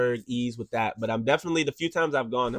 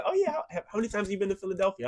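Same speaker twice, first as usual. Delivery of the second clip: much higher, fast and sing-song mock question; mocking outsider; 8 semitones higher, faster than usual. Tired local mimicking people asking about Philadelphia, high mock voice. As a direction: parody the clueless out-of-stater, quick. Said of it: "so sick and tired of people like".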